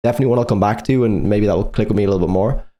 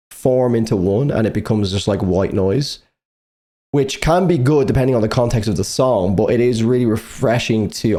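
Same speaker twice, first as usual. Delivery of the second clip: slightly slurred, retainer-affected speech. Real, not acted. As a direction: talk as if your mouth is stiff. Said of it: "I sound like I've got a severe concussion by the way I'm speaking".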